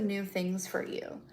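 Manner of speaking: hushed, secret aside; breathy whispered promise. Real, not acted. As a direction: drop to a whisper for the viewers.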